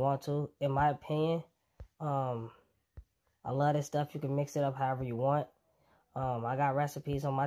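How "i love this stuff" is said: ordinary talk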